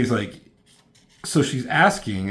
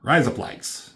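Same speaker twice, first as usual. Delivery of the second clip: put-on higher Australian-accented try; mock Australian accent, pitched up; 5 semitones higher, 4 dB louder, slower than usual. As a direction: run "Rise up lights" together like Australian "razor blades". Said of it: "Australian accent".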